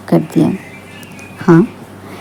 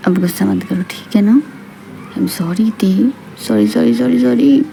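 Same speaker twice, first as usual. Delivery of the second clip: soft, coaxing apology; quietly asking for forgiveness; gentle apology; 5 dB quieter than usual. Acted. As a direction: gently placate an upset partner. Acted husband apologises to upset wife.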